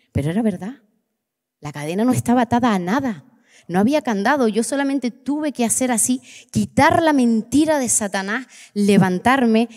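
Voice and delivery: ordinary delivery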